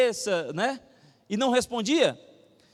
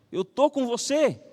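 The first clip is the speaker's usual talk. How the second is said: slow, firm voicing of God's promise; emphatic reassurance; 3 semitones higher than usual. God answering the doubting bookseller, emphatic reassurance. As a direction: declare it slowly and firmly.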